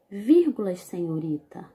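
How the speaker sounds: policeman voice. Shown as a demonstration. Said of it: "Perceberam a entonação da leitura?".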